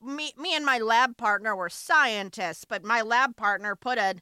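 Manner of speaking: lightly voiced transatlantic old-timer; a hint of a twenties Irishman; crazy Irishman voice. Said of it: "sounding like, um, like a crazy Irishman".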